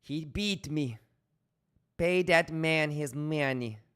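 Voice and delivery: lightly voiced card player; mock gambler's lament; imitating a poker player. Streamer pretending to be the movie character, mock. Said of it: "just pretending like it's him saying".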